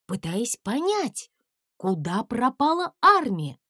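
ordinary delivery, nothing marked

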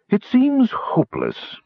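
slow, high, sighing dragon. Acted. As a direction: sigh it out as the dragon. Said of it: "with a profound sigh".

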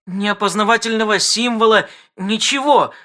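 high, wailing complaint; wailed. Acted. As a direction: wail it in distress. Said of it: "взвыла Кластер".

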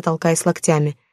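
usual speaking voice

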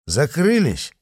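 menacing echo of the word; unkindly. A narrator's reading. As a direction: repeat it back with a threat. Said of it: "переспросил патриот недобро".

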